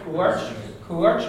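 "Courage" with a clear ua diphthong. Shown as a demonstration. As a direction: glide through ua in "Courage". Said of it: "It's a diphthong, so it's ua".

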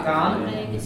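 "fan" with a short flat A. Shown as a demonstration. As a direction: say "fan" with a clipped short A vowel. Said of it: "a short A".

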